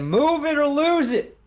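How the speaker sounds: high, drawn-out battle yell; in-character scream. Pretend. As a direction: holler it like a rallying order. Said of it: "I'm gonna just scream out again".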